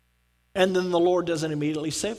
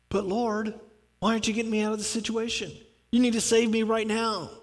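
mock impatient plea; 3 semitones higher, 3 dB quieter, faster than usual. Impatient believer demands rescue.

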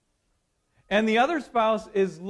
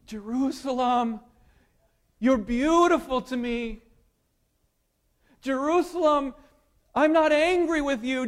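romantic; 3 semitones higher than usual. Acted. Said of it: "like a man speaks to a woman romantically".

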